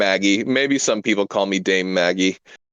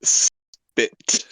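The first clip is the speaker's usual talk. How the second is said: grand title; 3 semitones higher, much slower than usual. Acted. Announcing grand title, very slow.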